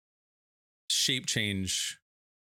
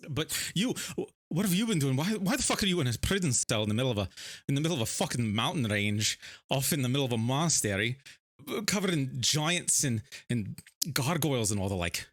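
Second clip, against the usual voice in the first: frantic questioning; 4 semitones higher, faster than usual. Acted. Bart frantically questions his wife.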